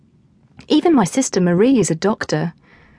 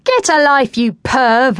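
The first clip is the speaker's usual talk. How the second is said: snapping back; 6 semitones higher, 5 dB louder, slower than usual. A narrator's reading. TJ snaps back at Will.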